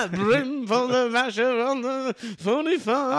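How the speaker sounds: slow singing in a put-on voice; Jimmy Savile impression. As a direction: croon it like an old TV host. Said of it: "you sound like Jimmy Savile".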